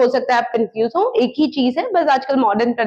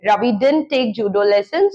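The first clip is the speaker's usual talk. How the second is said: slow model sentence; 3 semitones lower, much slower than usual. Shown as a demonstration. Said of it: "Ravi ने कोई judo lessons नहीं लिए".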